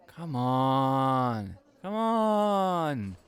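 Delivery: eager, insistent begging, rising then easing; pleading. Real, not acted. Friend pestering a pal about his admirer, eager begging. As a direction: nag a friend to spill the gossip.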